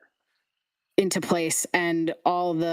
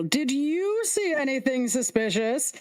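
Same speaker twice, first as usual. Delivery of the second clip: sing-song question; 6 semitones higher than usual. Acted. Head passes question on.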